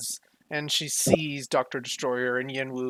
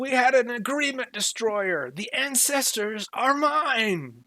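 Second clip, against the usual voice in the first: very high shrill shriek, mine drawn out; 10 semitones higher than usual. Retelling an argument between Wu and Doctor Destroyer, as Wu's shrill scream. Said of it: "in his shrill voice, you know, screams".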